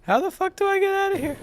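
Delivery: very high frustrated voice; exasperated squeal. Real, not acted. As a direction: plead helplessly, way up high. Stuck in the game, exasperated.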